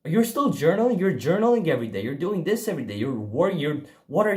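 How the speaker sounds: mom's high amazed questions, quickening; surprised mom. Retold or imitated. Mom finding son journaling daily, surprised and quick. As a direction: imitate mom's delighted disbelief. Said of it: "she'd be very surprised".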